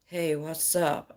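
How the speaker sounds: slow, drawn-out smooth-talker impression; soft, lingering mock seduction; sexy male voice. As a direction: lightly imitate his smooth, sexy greeting. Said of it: "a sexy voice".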